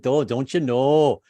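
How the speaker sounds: put-on slow, light Minnesota accent; drawn-out Minnesota don't you know; a hint of Minnesota accent. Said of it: "trying to pick up the Minnesota accent".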